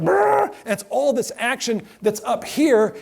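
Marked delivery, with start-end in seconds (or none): 0.0-0.5 high mock rhino snort; rhino noise. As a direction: imitate the charging rhino. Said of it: "the rhino's like".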